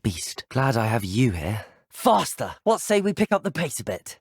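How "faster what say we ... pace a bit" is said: high, eager urging; calling out. Acted. Rider asking the beast for more pace, calling out. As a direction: call to your mount, pitched up.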